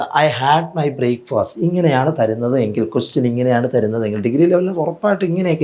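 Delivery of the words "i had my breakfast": drawn-out, word-by-word reading; extremely slow example read; slow dictation. Shown as a demonstration. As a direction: spell the sentence out slowly for the class. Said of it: "അപ്പോൾ നമ്മൾ ചെയ്യേണ്ട".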